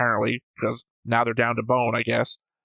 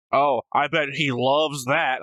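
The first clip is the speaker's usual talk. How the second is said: sarcastic example; slower than usual. Shown as a demonstration. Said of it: "it's not sarcasm".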